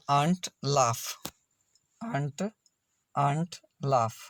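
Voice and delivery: slow "आंट, लाफ", each with a long आ. Shown as a demonstration. Teacher repeating examples for learners, slow long आ in "आंट, लाफ". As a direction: repeat "आंट, लाफ" as drawn-out model words, vowel as आ. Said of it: "एयू का उच्चारण आ हुआ".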